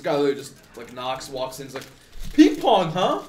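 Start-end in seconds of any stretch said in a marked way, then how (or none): 2.3-3.2 loud, high, teasing greeting; mock-hearty doctor, pitched up; booming silly doctor. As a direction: burst in and announce it loudly.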